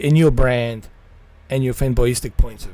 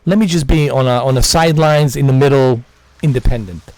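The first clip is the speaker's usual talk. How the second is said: exasperated rant; 5 dB louder than usual. Real, not acted. Exasperated rant about mascots.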